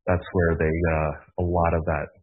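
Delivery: winded, talking between breaths. Real, not acted. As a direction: still catching breath after exertion. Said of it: "trying to catch my breath still".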